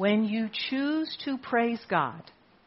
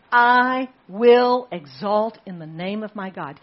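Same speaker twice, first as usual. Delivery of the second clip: loud exultant proclamation; 3 semitones higher, 12 dB louder, slower than usual. Acted. Pastor cries out praise quote.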